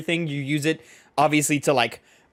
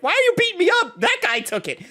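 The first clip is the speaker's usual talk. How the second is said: much higher mock whiny schoolkid; whiny kid. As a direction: squeal it like a bullied high school kid. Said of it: "the high school kid's like".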